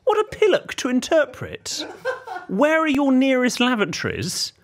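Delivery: high, slow, laughing through it; mock the question while cracking up; laughing exasperation. Real, not acted. Laughing at the shop assistant's question, high and slow.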